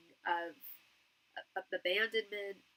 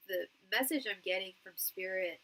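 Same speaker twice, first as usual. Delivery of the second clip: stuffy nasal voice from a cold; blocked nose. Real, not acted. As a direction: talk through a blocked nose. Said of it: "sorry I sound so nasal".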